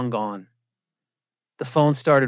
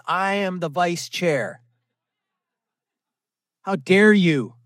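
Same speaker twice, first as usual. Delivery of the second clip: mock pompous; 2 semitones higher, slower than usual. Self-important vice chair rant.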